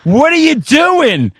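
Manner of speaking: high, slow, puzzled voice of the crowd; baffled onlookers. Retold or imitated. Fans asking the shouting madman, high and slow. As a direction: draw it out like bewildered friends. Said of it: "And everyone's like".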